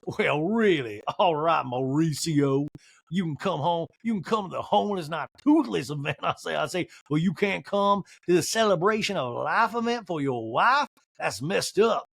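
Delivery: drawn-out mock indignation; Sutton. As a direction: stretch key words in a put-on protest. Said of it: "And Sutton in a talking head goes".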